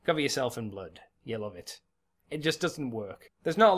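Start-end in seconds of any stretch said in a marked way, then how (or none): 0.1-1.8 lightly voiced, half-hearted demon; a deliberately bad demon impression. Shown as a demonstration. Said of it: "me doing the voice of a demon".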